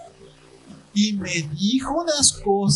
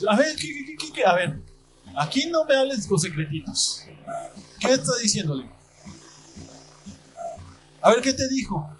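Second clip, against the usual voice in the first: stern parent scolding; 5 semitones higher than usual. Retold or imitated. Pastor scolding kids at home.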